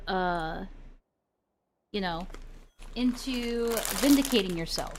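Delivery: talking while chewing popcorn; words round a mouthful of popcorn; munching popcorn. Real, not acted. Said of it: "Sorry, I'm eating popcorn while I'm doing this".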